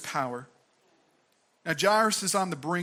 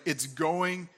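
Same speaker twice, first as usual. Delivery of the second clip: earnest reassurance. Shown as a demonstration. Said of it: "looks Jairus in the eyes".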